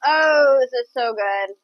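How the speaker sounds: loud burst of delight at the taste; sudden happy oh while tasting. Real, not acted. Tasting the finished chicken.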